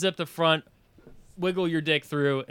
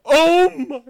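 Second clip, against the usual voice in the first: high, loud retold cry; shocked exclamation; 11 semitones higher, 10 dB louder than usual. Ex seeing his soaked pants, shocked exclamation. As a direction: burst out aghast, imitating her.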